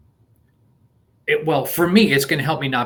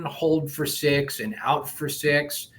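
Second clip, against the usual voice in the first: slow breath count; slower than usual. Shown as a demonstration. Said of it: "or then can go to six in".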